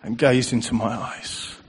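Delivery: soft, slow, loving; a father's quiet devotion; tender voice of God. Retold or imitated. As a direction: pour out love gently, word by word. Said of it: "as if it was the Father saying it".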